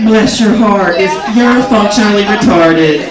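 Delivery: loud, slow, syrupy Southern insult; Southern put-down. Retold or imitated. Comic mocking Southerners, a loud, slow, fake-sweet blessing. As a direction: smile through a backhanded blessing. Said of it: "Kinda like".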